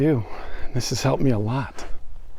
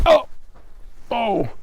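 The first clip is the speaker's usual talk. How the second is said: surprised; 10 semitones higher than usual. Real, not acted. Startled by thorny plant.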